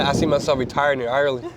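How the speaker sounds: put-on a light Cork Irish accent; lightly voiced Irish accent, playful. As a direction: repeat the line in a Cork lilt. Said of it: "You sound like a Cork accent".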